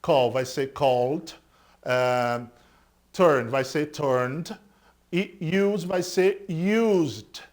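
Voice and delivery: "called", "turned", "used" said slowly ending in d; "called" with a plain d and no extra vowel; slow demo of d ending. Shown as a demonstration. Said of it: "vai ter o som de D normal".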